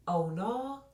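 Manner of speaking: high, loud "oh, no?"; sarcastic high challenge; mocking surprise. Retold challenge.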